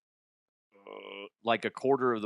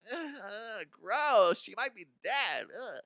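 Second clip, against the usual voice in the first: higher, soft disgusted lifeguard voice; squeamish lifeguard; 9 semitones higher, 5 dB quieter, slower than usual. Retold or imitated. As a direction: recoil from the body, half-hearted. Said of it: "the lifeguard".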